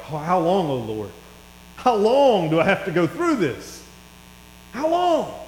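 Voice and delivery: pleading cry rising high at the end; anguished cry. Acted. David crying out to the Lord, anguished.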